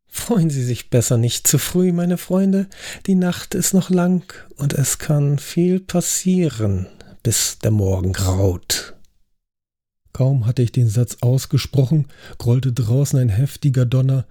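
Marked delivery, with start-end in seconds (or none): 0.1-9.0 nachsichtig lächelnd. Acted. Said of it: "Ich lächelte nachsichtig".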